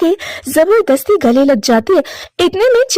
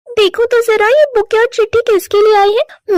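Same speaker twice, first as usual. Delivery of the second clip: higher, wondering wife's voice; puzzled young wife; 6 semitones higher than usual. Acted. Chinki finding a bouquet at the door, curious higher voice. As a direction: ask it with raised curiosity.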